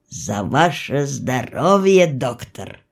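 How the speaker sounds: low, slow, feeling-laden toast; drawn-out, earnest feldsher's toast; heartfelt toast. A narrator's reading. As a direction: raise a glass with deep feeling. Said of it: "прочувственно сказал Демьян Лукич".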